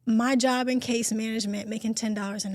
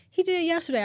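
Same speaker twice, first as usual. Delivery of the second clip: ordinary delivery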